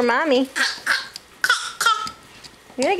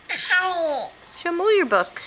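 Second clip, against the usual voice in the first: slow, laughing prompt; 3 semitones higher, much slower than usual. Real, not acted. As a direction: stretch each word slowly while laughing. Repeats to toddler, slowed.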